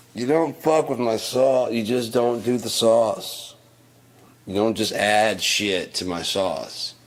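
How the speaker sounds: yelling, loud and slow; angry rant at coworker. Retold or imitated. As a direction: lay into her, word by word. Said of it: "I was like".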